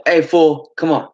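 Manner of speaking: mock rough call; retold angry summons. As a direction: imitate someone bursting in impatiently. Retold leader bursting in.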